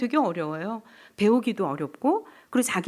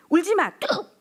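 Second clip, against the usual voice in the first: put-on sharp, higher command to a crying child; mock scolding; 8 semitones higher than usual. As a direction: parent shutting down tears. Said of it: "이렇게 얘기하잖아요". (우는 아이를 다그치는 부모 흉내)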